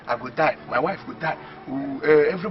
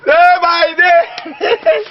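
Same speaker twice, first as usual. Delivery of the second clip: drawn out; 11 semitones higher, 5 dB louder, much slower than usual. Acted. Gloating over the money.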